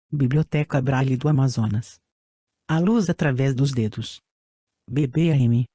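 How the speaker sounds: robotic text-to-speech voice; even synthetic reading voice. Real, not acted. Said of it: "com a utilização de voz sintetizada". (voz sintetizada antiga)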